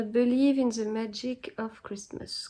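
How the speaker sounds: reading English words in her French-accented English, slowly. Shown as a demonstration. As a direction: read it out in English, slow and careful. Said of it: "vous entendez, euh, mon accent anglais".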